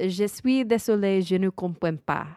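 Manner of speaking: careful, learner's French accent; amateur French. Shown as a demonstration. Host showing her only French phrase, careful learner's accent. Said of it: "it's gonna be terrible".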